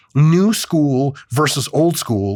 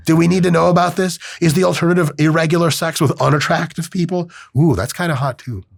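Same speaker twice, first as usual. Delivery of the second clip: mock sarcastic reply; 5 semitones higher than usual. Scott mocked, joking.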